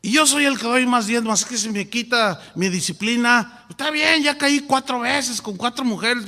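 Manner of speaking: a big donor threatening to leave; mock arrogant tither. Rich member threatening the pastor.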